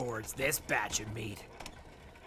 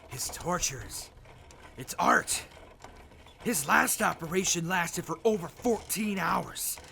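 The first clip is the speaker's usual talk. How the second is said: louder, higher, thrilled gushing; rapturous excitement; 5 semitones higher, 4 dB louder than usual. Acted. Raider gushing about surgeon's torture to her partner, louder and excited. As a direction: gush about it like a fan.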